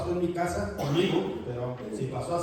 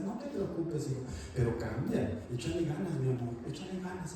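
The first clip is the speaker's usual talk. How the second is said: tender God. Retold or imitated. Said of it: "Él te redarguye y te dice".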